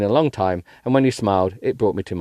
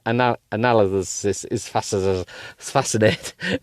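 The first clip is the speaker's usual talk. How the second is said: slow stumbling read; slower than usual. Real, not acted. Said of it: "Analysis is fascinating".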